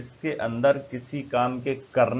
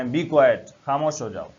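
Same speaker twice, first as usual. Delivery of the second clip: stern order; 5 dB louder, slower than usual. Shown as a demonstration. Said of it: "आप उसको, आ, बोले".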